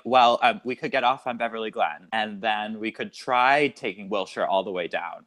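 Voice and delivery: lightly Californian route-planning; a hint of California accent. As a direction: slip into a California way of talking. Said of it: "slipping into more of a California way of talking".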